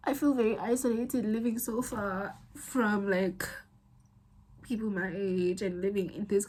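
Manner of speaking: real tearful halting confession; crying. Real, not acted. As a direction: push the words out through tears, with long pauses. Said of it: "I'm crying".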